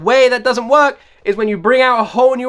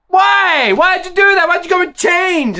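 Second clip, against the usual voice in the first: exasperated shout; 7 semitones higher, slower than usual. Real, not acted. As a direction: yell the question like a betrayed fan. Ranting at band's genre change.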